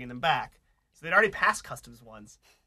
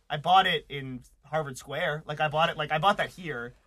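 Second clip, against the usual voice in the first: louder, slow, insisting he bought it here; exasperated insisting; 2 semitones higher, 5 dB louder than usual. Retold or imitated. Retelling arguing with the customs officer, slow exasperated insistence. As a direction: lay it out slowly and firmly to a stubborn officer.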